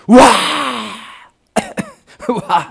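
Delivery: hammed-up crowd roar of "wow"; big drawn-out whoop of acclaim; over-the-top cheer. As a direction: cheer wildly like an amazed crowd, overdoing it. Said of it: "사람들은 막 환호할 거라는 거죠".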